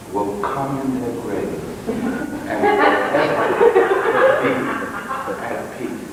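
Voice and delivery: measured poetic recital with long pauses; solemn recitation. Acted. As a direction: recite it like a visionary poem. Recites a visionary monologue.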